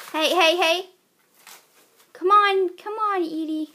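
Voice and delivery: loud, high urgent shout; urgent calling out. Real, not acted. Owner calling to her fighting pets, loud and urgent. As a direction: call out sharply to break it up.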